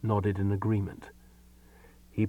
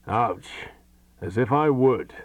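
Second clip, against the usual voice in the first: testy growl; 2 semitones higher, 4 dB louder, slower than usual. Acted. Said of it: "growled the voice testily".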